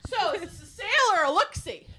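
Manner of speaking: high-pitched retold heckle for all to hear; loud, pointed grumbling. Estate-sale shopper grumbling for the seller to overhear, loud and pointed. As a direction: loudly re-enact a snide shopper's complaint. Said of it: "we were loudly walking around going".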